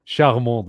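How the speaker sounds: charmant said the French way, nasal an, no final t; French pronunciation. Shown as a demonstration. Friend quoting the French word charmant, French pronunciation. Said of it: "they say".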